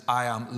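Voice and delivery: "I am" said with measured, deliberate stress. Shown as a demonstration. Preacher showing the congregation Jesus' emphasis, stressed "I am". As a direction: lean evenly on both words, "I am". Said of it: "The stress is".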